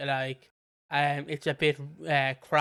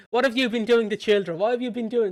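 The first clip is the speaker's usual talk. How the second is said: raised, higher-pitched accusation; mock vigilante confrontation; 6 semitones higher, 5 dB louder than usual. Imitating predator catchers confronting a suspect, loud and accusing. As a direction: confront him loudly, hammed up. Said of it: "when people wanna catch nonces".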